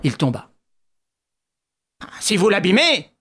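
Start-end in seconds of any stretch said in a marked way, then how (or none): 2.2-3.1 furious growl. A narrator's reading. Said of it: "gronda Ganimard furieux".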